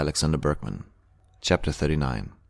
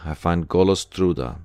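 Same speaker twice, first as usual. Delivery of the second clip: usual speaking voice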